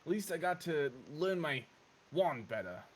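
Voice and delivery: slight New Zealand twang; lightly New Zealand-accented character voice; a hint of New Zealand in the vowels; New Zealandish twang. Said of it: "That sounded New Zealandish".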